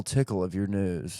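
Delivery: whispered teasing. Pretend. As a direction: breathe it as a whisper. Whispered echo.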